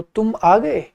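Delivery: "तुम आ गए" with a rising question tune on "गए". Shown as a demonstration. Teacher asking "तुम आ गए" as a phone question. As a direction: ask it as on the phone, pitch rising at the end. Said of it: "ये प्रश्न का भाव है".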